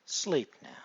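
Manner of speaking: sudden loud trigger command; firm command. Acted. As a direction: snap them into trance with a loud command.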